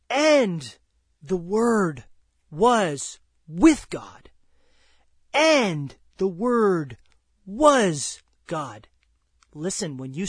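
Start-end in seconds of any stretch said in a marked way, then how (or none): 0.1-8.9 slow proclamation. Acted. Preacher proclaims scripture line by line.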